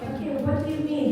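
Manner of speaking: quick, puzzled question; curious. Shown as a demonstration. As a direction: ask it fast, slightly curious.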